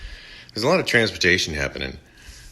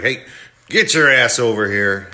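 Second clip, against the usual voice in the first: mock angry order, louder; mad; 5 dB louder than usual. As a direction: imitate a fed-up man ordering someone over. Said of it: "Bruce gets mad".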